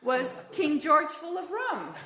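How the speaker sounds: laughing. Real, not acted.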